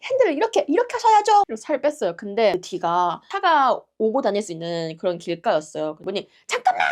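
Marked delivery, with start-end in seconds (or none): 0.1-1.4 high, insistent instruction; acted hands-on coaching; imitated bossy instructing. Woman taking charge of steering. 6.5-6.8 high-pitched "hold on" cry; acted urgent shout; imitated urgent call. Woman runs to stop traffic.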